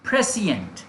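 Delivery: "prescient" as PRE-si-ent with a fall; model pronunciation. Shown as a demonstration. Teacher encouraging practice, "prescient" as a falling model word. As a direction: say "prescient" on its own, first syllable stressed. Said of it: "prescient is the pronunciation".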